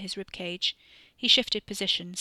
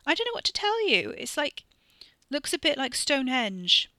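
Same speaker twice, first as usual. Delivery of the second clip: high, raised call from a distance; 7 semitones higher, 5 dB louder than usual. A narrator's reading. Sister shouts her description down from the rocks, high and raised. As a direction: throw it across the gap to him.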